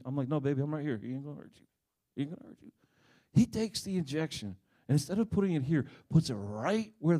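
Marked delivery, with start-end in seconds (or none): 0.3-2.7 reassuring. Retold or imitated. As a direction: settle her fears quietly. Father calming daughter.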